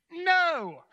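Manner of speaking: high, loud drawn-out "no"; shouted answer. Acted. Disciples answer the man on shore, shouting back. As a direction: holler it back over the water.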